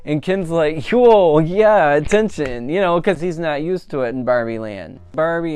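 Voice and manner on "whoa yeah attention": loud, high whoop of delight; delighted Ken. Retold or imitated. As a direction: cheer like a guy loving the spotlight.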